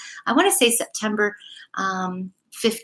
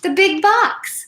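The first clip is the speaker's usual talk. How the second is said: higher, slow and weighty; ominous emphasis; 10 semitones higher, slower than usual. Acted. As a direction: let the big box loom. Dramatic repeat in story.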